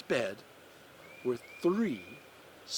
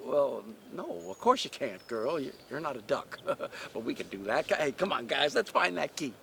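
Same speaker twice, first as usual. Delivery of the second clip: lightly voiced chummy duck; a hint of a can-do duck rallying the flock; friendly duck; faster than usual. Duck voice reassures the girl.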